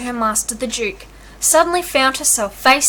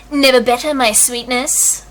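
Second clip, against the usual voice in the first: purring; 3 dB louder than usual. A narrator's reading. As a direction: purr it like a smug suitor. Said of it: "Malvolio purred".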